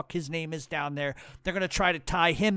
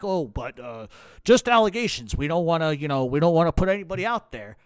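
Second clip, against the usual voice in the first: mocking, louder backpedaling hosts; 5 dB louder than usual. Mocking the podcasters as they back off their claims, louder. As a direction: sneer out their weaselly excuse, fast. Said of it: "then they start jumping back".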